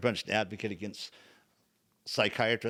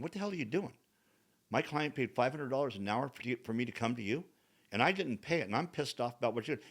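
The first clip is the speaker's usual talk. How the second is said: contained, indignant retold complaint; retold frustration; 2 semitones higher, 4 dB quieter than usual. Patient to therapist who keeps walking out, frustrated. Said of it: "I'm getting frustrated".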